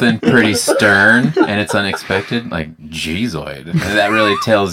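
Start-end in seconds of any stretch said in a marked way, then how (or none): 2.9-3.7 low mutter. Shown as a demonstration. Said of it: "a nasty habit of saying".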